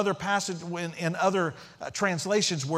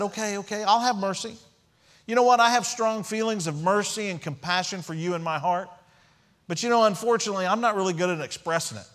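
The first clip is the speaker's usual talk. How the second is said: raised, insistent mock apology; loud, higher, put-on protesting; mock excuse-making; 4 semitones higher, 4 dB louder than usual. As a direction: pitch it up, hypothetically making lame excuses. Imagined Jesus giving a lame excuse.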